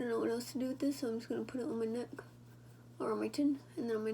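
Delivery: fast unvoiced whisper to herself. Real, not acted. Herself at the mirror, whispering. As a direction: mutter it under your breath as you work. Aside while doing her makeup.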